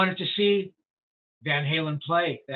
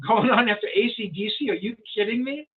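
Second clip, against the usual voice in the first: higher, incredulous comeback; retold incredulity; 4 semitones higher than usual. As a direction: imitate someone balking at the very idea. Edward's incredulous answer, retold.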